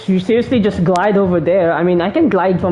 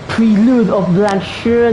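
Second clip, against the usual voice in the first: French accent; much slower than usual. Real, not acted. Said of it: "I have the worst French accent now".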